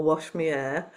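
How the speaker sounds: Liverpool "wash me air", me for my and the h dropped; a light Liverpool "wash me air"; Liverpool accent. Shown as a demonstration. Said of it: "I wasn't allowed to say".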